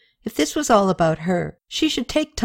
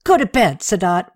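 put-on mother scolds her drunk son off the floor; mother yelling; 2 semitones higher than usual. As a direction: order the drunk son off to bed. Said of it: "Rabea yelled in Sumerian".

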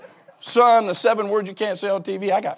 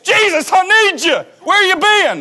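high, loud plea to Jesus; desperate believer; 13 semitones higher, 7 dB louder than usual. Retold or imitated. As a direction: cry out suddenly like someone flipping a switch. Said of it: "we flip him on like a switch".

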